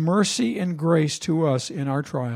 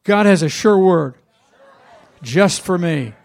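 louder affirmation; 5 dB louder than usual. Shown as a demonstration. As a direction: lead the congregation, louder, with "has" punched.

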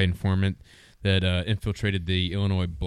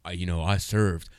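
Forrest Gump; 4 semitones lower than usual. Retold or imitated. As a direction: stretch the last word in deadpan mimicry. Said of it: "guy who talked like Forrest Gump".

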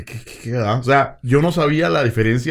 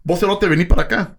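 rough insult; 5 semitones higher than usual. Shown as a demonstration. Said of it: "el tono en el que uno enfoca la mala palabra".

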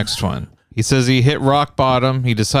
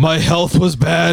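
higher, slow caricature voice; mock Apu voice; 4 semitones higher, slower than usual. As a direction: drag it out in a cartoonish Apu imitation. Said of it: "He's doing a Apu voice".

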